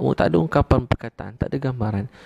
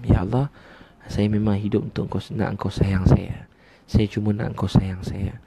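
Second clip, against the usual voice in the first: heartfelt prayer. Shown as a demonstration. Models a heartfelt prayer to Allah.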